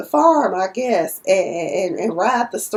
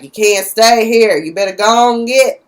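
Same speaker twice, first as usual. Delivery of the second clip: firm dismissal; 5 dB louder than usual. Retold or imitated. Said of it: "he's like".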